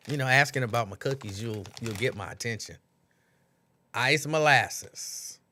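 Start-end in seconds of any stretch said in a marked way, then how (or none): 3.9-5.4 very slow, drawn-out; savoring. Real, not acted. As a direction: roll the name around fondly. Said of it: "savoring cookie name".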